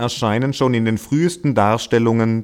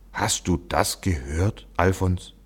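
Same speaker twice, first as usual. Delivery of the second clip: much softer, slow hushed question; whispering donkey; 5 dB quieter than usual. A narrator's reading. Donkey whispers to Alfons about Joseph's words, softly and slowly. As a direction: lean in and whisper it. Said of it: "flüsterte Johann".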